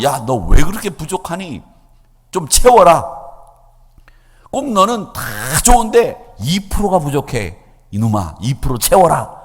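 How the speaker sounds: mock-scold the believer for falling short; scolding God voice. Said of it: "이렇게 말씀하시는 분이 아니에요".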